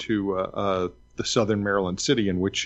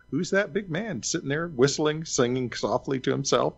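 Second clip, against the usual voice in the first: lightly voiced curious passerby, a little higher; 3 semitones higher than usual. Passersby remarking on the stranger on the bench, lightly acted. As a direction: wonder aloud like a passing local. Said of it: "people going by going".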